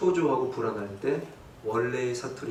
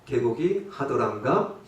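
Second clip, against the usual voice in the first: mock Jeolla dialect; 3 semitones lower than usual. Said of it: "전라도 남자 하면".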